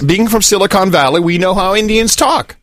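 hint of an Indian accent; mock Indian accent. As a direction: slip lightly into an Indian accent. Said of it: "that accent".

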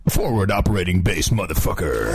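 low, dramatic announcer call; fighting game announcer. Shown as a demonstration. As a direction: boom it out like a fight intro. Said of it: "say in announcer voice".

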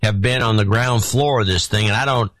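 lightly put-on Southern accent; Southern drunk voice. Reading a donor's note on request, lightly drunk Southern accent. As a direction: read it with a hint of tipsy Southern slur. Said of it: "Southern drunk voice".

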